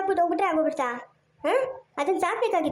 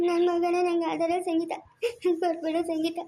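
tearful plea. Acted. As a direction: beg through tears. Father pleads for his son.

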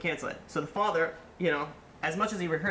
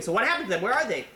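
high, raised-voice demand for answers; retold screaming; 7 semitones higher, 5 dB louder, faster than usual. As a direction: act out yelling in shock. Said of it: "so he starts screaming".

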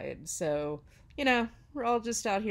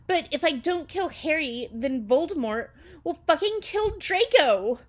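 put-on higher, melodramatic teenage outburst; hammed-up distress; 7 semitones higher, 9 dB louder than usual. A narrator's reading. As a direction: wail it out like overblown melodrama. Distraught confession voiced in fan fiction.

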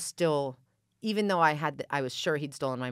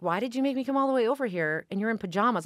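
mad outburst; 9 semitones higher, 7 dB louder than usual. Retold or imitated. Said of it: "I was mad".

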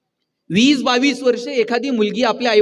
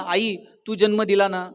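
a son's soft heartfelt thanks, lower at the end; tender thanks to mother; 3 semitones lower, 5 dB quieter than usual. Shown as a demonstration. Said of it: "कधीतरी आईला म्हणा".

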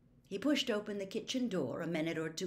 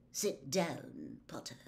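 cold order; 4 semitones lower, 5 dB quieter, slower than usual. A narrator's reading. Snape orders Harry to sit.

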